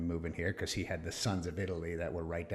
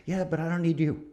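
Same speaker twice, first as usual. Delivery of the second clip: higher, louder punchline stress on need; defiant retort; 8 semitones higher, 4 dB louder than usual. Retold or imitated. Telling the Navy off, defiant retort. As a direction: fire back with glee. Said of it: "I'm like".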